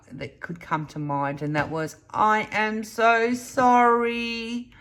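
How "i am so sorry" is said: retold tearful apology. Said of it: "Like, I was almost in tears".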